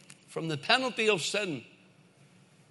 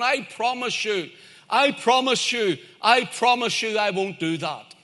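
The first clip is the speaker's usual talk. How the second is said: insistent promising; 5 semitones higher than usual. Acted. Scorpion coaxes the doubting frog.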